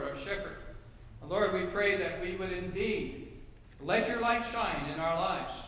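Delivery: earnest, gently paced pastor's prayer. Acted. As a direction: pray it humbly for the congregation. Pastor leads opening prayer.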